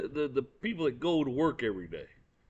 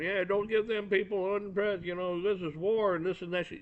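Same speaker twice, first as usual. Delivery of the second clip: mock Maxine Waters; 6 semitones higher than usual. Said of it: "get out there and".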